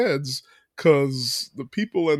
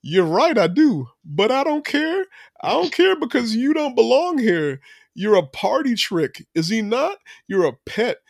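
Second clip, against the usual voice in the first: cold put-down; 3 semitones higher than usual. Retold or imitated. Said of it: "She goes".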